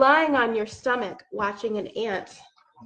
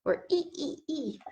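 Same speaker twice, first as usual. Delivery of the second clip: monkey squeak; 5 semitones higher, 10 dB quieter than usual. Pretend. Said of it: "Can we make a monkey sound?".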